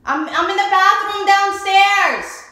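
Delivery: calling out across the house; slow call to someone upstairs; from another room. Pretend. Calling out from the bathroom.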